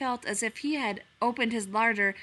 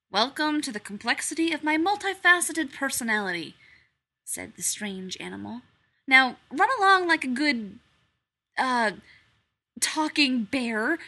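higher, louder, sarcastic stranger; haughty strange animal; 4 semitones higher, 7 dB louder than usual. A narrator's reading. Strange animal mocking Pooh, higher and louder. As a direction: lord it over the little bear.

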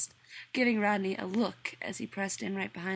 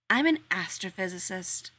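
haughty sniff; 3 dB louder than usual. Acted. Rodney announcing his job to the workmen, haughty. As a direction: lean on AN in "I'm an astrophysicist", proud and superior. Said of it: "Rodney sniffed".

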